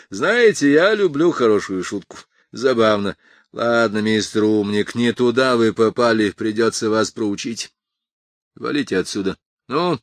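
loud, high sneering bully; menacing thug. Acted. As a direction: taunt him like a bouncer. Thug mocking, threatening.

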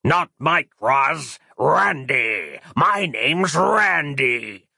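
slow, drawn-out sneering demon; mock her mistake with slow cruelty; a lightly voiced cruel dream demon savouring his name; cruel Randy voice. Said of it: "said that same cruel voice".

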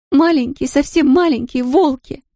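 put-on high, tearful girl with a strong Polish accent; a lost Polish girl in broken Russian, strong Polish accent. A narrator's reading. Tearful Polish girl asks the shopkeeper about buses, strong Polish accent. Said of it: "с сильным польским акцентом".

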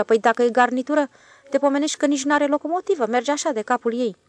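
a plain railway man shrugging off worry; switchman's voice. A narrator's reading. The switchman reassures the stationmaster, lightly voiced.

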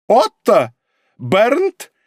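high, loud yelp of names; shrill yelp. A narrator's reading. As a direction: call them out high. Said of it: "взвизгнул он". (взвизгнул, высоко и громко)

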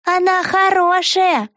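put-on high, slow little girl's solemn voice; a small girl stating it gravely; importantly. A narrator's reading. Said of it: "важно сообщила малышка". (важно, медленно, голосом малышки)

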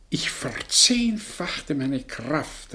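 slow, breathless whisper; whispered confession. Acted. Old man, remembering his lost love, whispers. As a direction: breathe it out like a secret.

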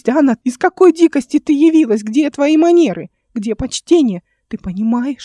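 high, loud furious scolding; furious tirade. A narrator's reading. Uncle scolding his defiant niece, furious. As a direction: berate her without pause.

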